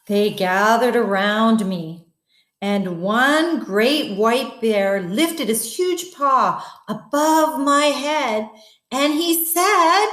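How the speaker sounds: put-on slow, lively read-aloud for kids; story narration. A narrator's reading. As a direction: tell it like a bedtime story. Reads story to children.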